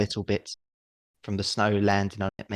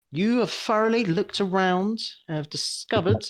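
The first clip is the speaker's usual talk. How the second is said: mock grand; 11 semitones higher than usual. GM mock-dramatic pronouncement.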